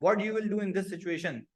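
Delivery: teacher dictating the question to students; slow dictated English. Shown as a demonstration. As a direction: spell out the exam question deliberately. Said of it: "course of action".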